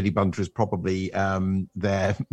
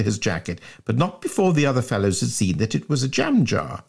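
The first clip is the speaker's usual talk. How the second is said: measured storybook reading with swooping phrase openings; story narration. A narrator's reading. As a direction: narrate a comic school tale. Reads the story aloud.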